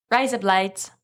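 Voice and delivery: tentative, lightly put-on Australian accent; attempted Australian accent. Shown as a demonstration. Cohost showing the one phrase they know, tentative Australian accent. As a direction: try a modest Australian accent on a stock phrase. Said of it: "can't really do Australian. I can say".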